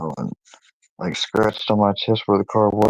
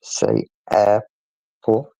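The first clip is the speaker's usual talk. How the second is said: slow prompting; much slower than usual. Retold or imitated. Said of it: "she said".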